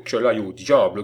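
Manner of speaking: mild annoyed growl; grumbling. A narrator's reading. Lecoq cursing as the child runs off, mildly growling. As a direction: grumble the curse with a touch of force. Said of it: "gronda Lecoq".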